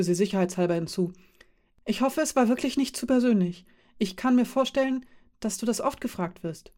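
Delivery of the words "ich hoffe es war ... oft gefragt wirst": put-on a lightly higher young woman, apologetic; Kanta, careful and polite. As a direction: tactfully hedge a personal question, lightly voiced. Kanta voiced by narrator. (Kanta, vorsichtig und höflich, leicht höher gesprochen)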